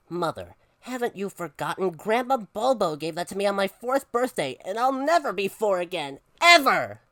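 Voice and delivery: put-on melodramatic child's plea building to an outburst; dramatic. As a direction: build to a loud final word. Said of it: "Don't be so dramatic".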